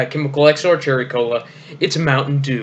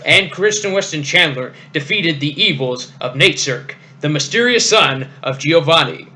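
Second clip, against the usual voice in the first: dramatic announcer voice. Shown as a demonstration. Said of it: "I got the perfect voice for it".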